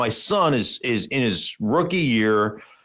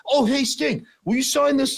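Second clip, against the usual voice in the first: sudden sweet fan voice, much higher; fawning fan; 11 semitones higher than usual. Retold or imitated. Heckler turning to the host for an autograph, mock sweet and much higher. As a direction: switch to a star-struck autograph plea. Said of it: "the guy turns around and goes".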